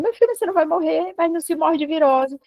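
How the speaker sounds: retelling a parent's attempt to reason away a fear; insistent reassurance. Mother telling her son he won't die of a virus, insistently.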